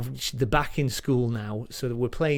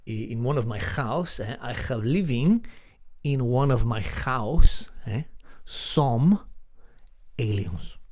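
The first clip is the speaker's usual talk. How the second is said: put-on Spanish accent; 2 semitones lower than usual. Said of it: "He has a very sexy accent".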